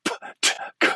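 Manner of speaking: bare voiceless "p, t, k"; "p, t, k" as percussive consonant bursts, no vowels; plosive exercise. Shown as a demonstration. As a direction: push out "p, t, k" as separate puffs from the stomach. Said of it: "put your hand in front of your stomach and go".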